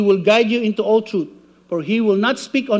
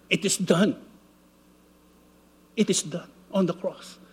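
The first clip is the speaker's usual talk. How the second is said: inner voice of the Spirit; 5 semitones lower, 5 dB quieter than usual. Retold or imitated. Holy Spirit comforts weeping Elmore, low soft still voice. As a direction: speak low and still, like a voice within. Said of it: "speak to me on the inner voice".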